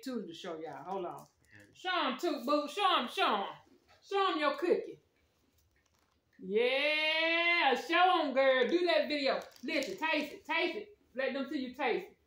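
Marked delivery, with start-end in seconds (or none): 1.7-12.2 coaxing. Real, not acted. Coaxing shy child on camera.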